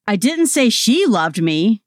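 she singled out, rising tune; stress on SHE. Shown as a demonstration. Demoing stress shifts to a listener, she stressed. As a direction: lean hard on she. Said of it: "say the following sentences".

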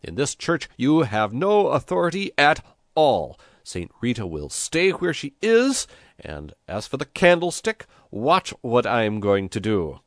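high, loud, indignant declaration; piercing, affronted little priest; shrill cry. A narrator's reading. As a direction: protest shrilly, standing on your authority. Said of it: "he cried in a shrill voice".

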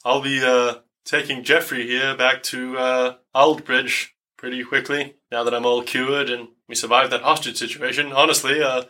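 lightly voiced droopy dog; a hint of a droopy dog character; Davin's droopy dog voice. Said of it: "in his droopy dog voice".

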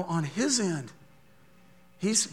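normal talking voice

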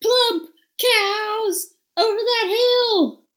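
high, slow, drawn-out gushing; play-acted awe, stretching the words; mock amazement. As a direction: tempt them with hammed-up wonder. Luring ogres with cow tale.

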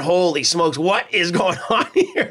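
retold disbelief with a laugh; amused mock bewilderment. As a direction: imitate baffled players, laughing. Players' bewildered reaction, retold.

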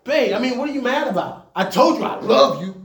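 mock-innocent husband in a heated debate; pleading husband. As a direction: play the clueless husband asking babe what's wrong. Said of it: "and I'd be like".

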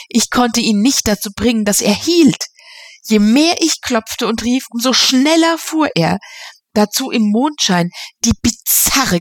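a touch of breathless alarm; nervous young man. Acted. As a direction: tell the taxi ride as if still shaken. Eddie tells of the taxi.

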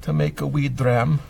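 put-on terrible Scottish accent; bad Scottish brogue, lightly done. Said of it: "My, my Scottish accent is terrible".

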